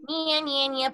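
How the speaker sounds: "Nya, nya" high and nasal, light; light nasal "nya" exercise; easy nya. Shown as a demonstration. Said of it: "it might sound easy, like".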